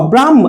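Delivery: ব্রাহ্ম with m sounded ahead of h; m before h. Shown as a demonstration. Teacher explaining the sound order, ব্রাহ্ম with m before h. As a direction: say the m of ব্রাহ্ম first, then h. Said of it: "আগে ম আসবে পরে হ আসবে".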